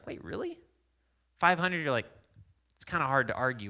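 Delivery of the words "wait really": surprised. Retold or imitated. Hearing it from twelve people.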